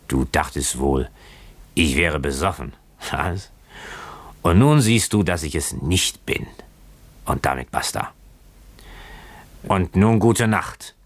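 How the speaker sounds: lightly played drunk with uneven pitch; drunken boatswain. Boatswain telling Keawe he is not drunk, lightly drunken. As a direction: insist on being sober, slightly drunkenly. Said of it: "wie die eines gänzlich Betrunkenen klang".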